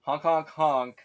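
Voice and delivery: playful goose honks, chanted in a row; honking. Pretend. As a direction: honk like a goose on cue. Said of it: "gonna turn into honking".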